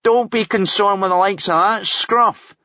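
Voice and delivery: high, loud, over-precise put-on posh delivery; hammed-up refined speech; theatrical articulacy. A narrator's reading. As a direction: enunciate every word like a stage gent. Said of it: "with theatrical articulacy".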